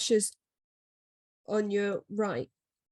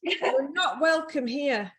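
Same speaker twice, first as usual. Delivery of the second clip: slow, solemn spooky medium voice; a hint of a TV ghost hunter addressing a spirit; Yvette Fielding ghost hunter; 6 semitones higher, slower than usual. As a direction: banish the spirit slowly and gravely. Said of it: "the sort of thing that Yvette Fielding says in Most Haunted".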